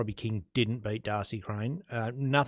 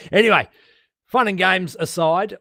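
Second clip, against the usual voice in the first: laughing it off, higher; 6 semitones higher, 6 dB louder than usual. Real, not acted. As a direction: chuckle through it and move on. Laughing, moving on.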